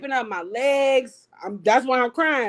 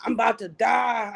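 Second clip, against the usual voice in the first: mock panicked shout. Retold panic in ambulance.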